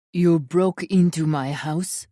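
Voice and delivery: loud, slow angry question; growled accusation. Acted. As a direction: make him answer for it. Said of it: "Gavriel growls".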